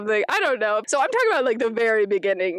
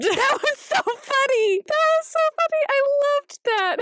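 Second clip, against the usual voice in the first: laughing delight; 13 semitones higher than usual. Real, not acted. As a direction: squeal with amusement through laughter. Laughing at the dragon scene.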